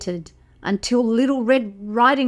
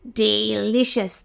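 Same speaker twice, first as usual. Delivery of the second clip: chortling wolf. Acted. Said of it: "the wolf chortled".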